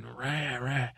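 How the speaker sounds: half-hearted cat screech; imitated cat yowl. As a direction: imitate yowling cats with "rah". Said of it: "in the garden saying".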